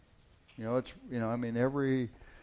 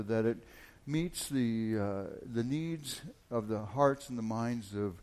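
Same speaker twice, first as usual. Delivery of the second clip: prayer. Acted. Opening prayer.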